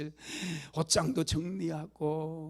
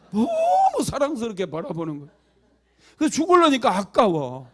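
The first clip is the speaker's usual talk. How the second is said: higher, louder, bursting with delight; excited telling; 4 semitones higher, 9 dB louder than usual. Acted. Preacher to congregation, thrilled the story turned happy. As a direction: tell it like a wonderful surprise.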